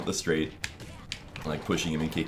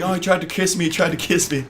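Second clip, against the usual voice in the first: high, loud mock outcry; hammed-up yelled accusation, pitched way up; retold yelling; 11 semitones higher, 5 dB louder than usual. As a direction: imitate a friend crying foul. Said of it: "he starts yelling".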